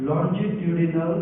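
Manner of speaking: longitudinal stretched very slowly, syllable by syllable; teacher spelling out a term for students, very slow and deliberate; drawn-out term. Shown as a demonstration. शिक्षक शब्द को बहुत धीरे खींचकर बोलते हैं. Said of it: "तो इसको हम लोग बोल सकते हैं".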